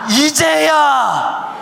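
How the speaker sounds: 이제야 drawn out slowly, loud and high; stress on 이제야. Shown as a demonstration. Preacher underlining the key word for the congregation, stressed. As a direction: hit 이제야 hard and stretch it. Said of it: "이제야라는 말에 우리가 밑줄을 쳐야 돼요".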